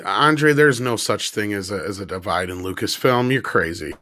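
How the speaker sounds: dry, mock-serious sarcasm; sarcastic. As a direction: say it deadpan, clearly not meaning it. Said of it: "did I say that sarcastically enough?".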